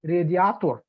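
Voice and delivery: radiator as reh-dee-AH-tor; "radiator" with open a and final -or; Russian pronunciation. Shown as a demonstration. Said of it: "post-Soviet Union countries might pronounce".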